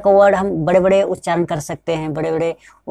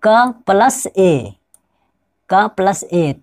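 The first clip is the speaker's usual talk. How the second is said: slow spelled-out sounds; much slower than usual. Shown as a demonstration. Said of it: "कैसे बना".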